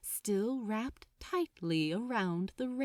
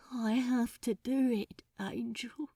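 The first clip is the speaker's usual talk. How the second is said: mumbled; 2 semitones higher than usual. Acted. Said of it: "he mumbled".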